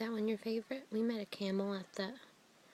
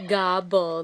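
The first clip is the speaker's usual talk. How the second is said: turkey gobble; 3 semitones lower, 10 dB louder than usual. Shown as a demonstration. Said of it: "The turkey says".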